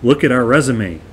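imitated insistent pleading; acting out claimants pushing their credentials; emphatic. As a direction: press your case, mildly emphatic. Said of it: "They're emphatic".

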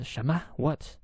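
retold disbelief, questions lifting upward; mildly incredulous man double-checking; surprised. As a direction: act out his puzzled surprise. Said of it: "So, so surprised".

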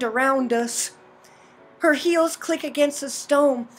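measured visual-novel narration; story narration. A narrator's reading. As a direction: read the game's narration aloud in an even storytelling voice. Reads game narration aloud.

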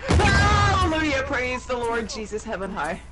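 mock preacher. Mock praise after surviving.

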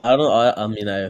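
real stumbling false starts; stutter. Real, not acted. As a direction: trip over the first words and restart. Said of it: "Yeah, nice stutter".

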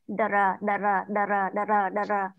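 "Đờ rờ" with the đờ and rờ clearly apart, slow and even; split sounds. Shown as a demonstration. Teacher drills the class on the parts of DR, split apart. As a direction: sound out "đờ rờ" as two separate syllables. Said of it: "tách ra âm đờ với âm rờ".

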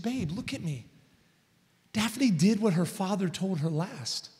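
quiet firm comfort to a shaken husband; calm reassurance. Retold or imitated. Wife calming him down.

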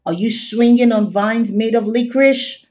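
expressive picture-book reading; reading to children. A narrator's reading. Host reading picture book to children, storytime voice. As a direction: read on in a storytime lilt.

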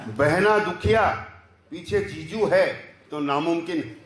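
declaimed satirical verse in short, separated phrases; punchy stage recital with measured pauses; poem recitation. Acted. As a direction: lift each line, then let the refrain fall. Recites own political verse.

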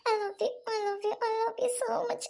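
slow, crying declaration; tearful love. Acted. Girl declaring love to her boyfriend, crying. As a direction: repeat it slowly through tears.

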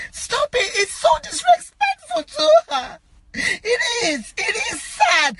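high, crying protest; tearful plea. Real, not acted. Mourner begging people to stop reposting, crying. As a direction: beg them to stop through real tears.

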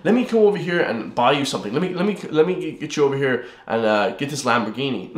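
mock generous stranger. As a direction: play an imaginary fan offering to buy him a Lamborghini. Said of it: "no one's gonna say".

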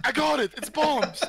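mocking a teammate's triumphant cheer, pitched high; imitating excitement. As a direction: ham up a teammate's eager discovery. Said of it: "I used to enjoy the, like, enthusiasm".

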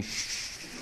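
whispered hush; shushing. Retold or imitated. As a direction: hush someone sharply under your breath. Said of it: "said to me".

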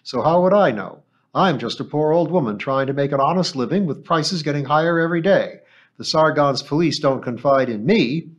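put-on put-upon old shopkeeper, complaining; old woman. An old woman grumbling to the captain, lightly voiced and aggrieved.

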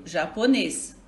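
"japonês" with the stress on final "nês"; stress on last syllable. Shown as a demonstration. Teacher giving class an example of final stress, "japonês" stressed on "nês". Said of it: "O acento está no nes".

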